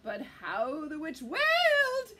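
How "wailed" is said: dramatic, louder storybook wail. A narrator's reading. Narrator telling how the witch wailed, wailing. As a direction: wail the word out.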